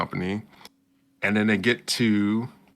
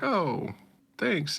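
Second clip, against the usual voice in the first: shy thanks; 10 semitones higher, 4 dB quieter than usual. Retold or imitated. Heroine's thanks voiced.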